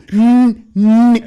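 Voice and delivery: smug mm. Retold or imitated. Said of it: "I went like that".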